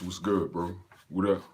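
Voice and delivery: normal talking voice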